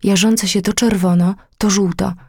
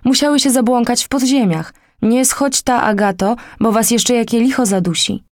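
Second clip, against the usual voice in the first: warning call; 4 semitones higher than usual. Acted. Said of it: "ozwały się głosy na górze".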